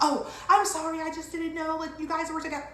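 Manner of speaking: high, hurried mock apology; apologetic store clerk. Store worker apologising for not knowing they were together, mock-apologetic and high. Staff apologise on realising mistake.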